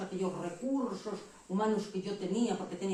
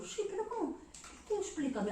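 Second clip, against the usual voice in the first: mock pleading; 12 semitones higher, 4 dB quieter than usual. Her own pleading question, retold.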